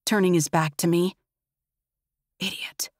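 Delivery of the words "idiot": muttered under the breath, near whisper. Acted. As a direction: mutter it just to yourself. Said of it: "I mutter".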